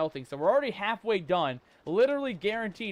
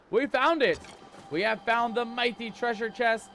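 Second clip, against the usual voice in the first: excited; 4 semitones higher, 3 dB louder than usual. Real, not acted. Finding treasure, excited reveal.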